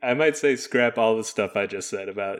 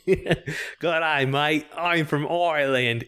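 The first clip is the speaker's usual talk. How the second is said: put-on a would-be Irish accent sliding into Aussie, higher, through a laugh; botched Irish accent; 4 semitones higher, slower than usual. Cohost joking along, a laughing botched Irish accent. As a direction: fumble an Irish accent while giggling. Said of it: "How do you do an Irish accent".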